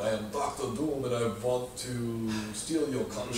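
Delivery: put-on Dracula accent; Doctor Doom. Supervillain announcing he will steal your country, Dracula accent. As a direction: play the villain with a mock Dracula accent. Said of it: "I always imagine him similar to Dracula".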